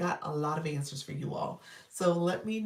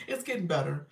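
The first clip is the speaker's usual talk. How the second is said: said through a laugh, a bit louder; 3 dB louder than usual. Real, not acted. Host answering a friend about her health, laughing. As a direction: laugh as you repeat it.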